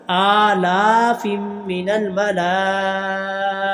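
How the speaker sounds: slow, chanted Quranic recitation with long held vowels. Shown as a demonstration. Teacher chanting the verse for students, slow melodic recitation. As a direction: intone it slowly, stretching the long vowels. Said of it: "बड़ी मद पाँच अलिफ के बराबर लंबा करेंगे".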